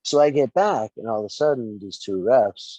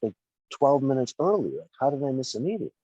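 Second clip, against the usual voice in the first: higher-pitched incredulous questioning; retold bafflement; 5 semitones higher than usual. Wrestler recalling learning he missed the meeting, baffled. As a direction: replay your baffled protest.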